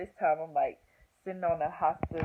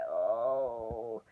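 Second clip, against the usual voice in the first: imitated labor moan; 7 semitones lower than usual. Re-enacting labor pain in triage.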